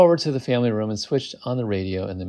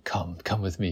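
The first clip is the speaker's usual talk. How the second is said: softer, lightly played urgent plea; urging; 3 semitones lower, 7 dB quieter than usual. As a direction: urge her gently in mock drama. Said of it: "he urged".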